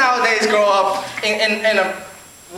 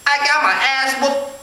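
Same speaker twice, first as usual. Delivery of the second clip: put-on slow, higher Asian-accented kid; mock Asian-accented kid owning up; 5 semitones higher than usual. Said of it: "Asian kid is gonna be like".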